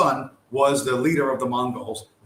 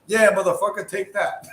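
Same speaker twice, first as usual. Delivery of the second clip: beaten guy's taunt; 6 semitones higher, 4 dB louder than usual. Retold or imitated. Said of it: "gets up and says".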